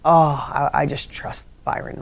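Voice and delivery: hushed, acted-out trust; soothed trust. Listener lulled by soothing voice.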